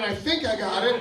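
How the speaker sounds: fuller-voiced mock repeat of the verdict; dissatisfied quoting back. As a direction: throw the words back in complaint.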